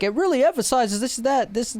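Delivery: imitating a pretentious music critic. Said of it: "he's like".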